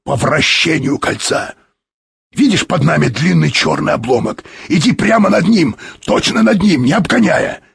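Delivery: high, urgent directions; urgent cry. A narrator's reading. Explorer directs the pilot over the fragment, crying urgently. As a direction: cry out the course, pitched well up. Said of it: "закричал вдруг он".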